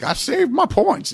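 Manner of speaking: high, slow mocking whine; drawn-out, high-pitched mockery; mocking points collectors. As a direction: mimic petty customers in a high drawn-out voice. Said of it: "people who are like".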